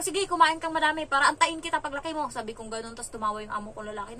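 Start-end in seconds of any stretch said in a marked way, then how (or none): 0.0-2.3 louder, higher goading comeback; retold annoyed retort. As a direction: dare the kid back, as retold. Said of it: "Napikon na din ako". (pikon na pagsagot)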